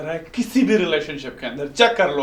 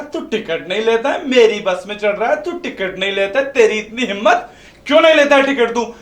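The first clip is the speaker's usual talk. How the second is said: rising angry demand, louder; getting angrier with each line; angry confrontation; 3 semitones higher, 6 dB louder than usual. Retold or imitated. Confronting the boy angrily on bus. (गुस्से में चिल्लाकर सवाल)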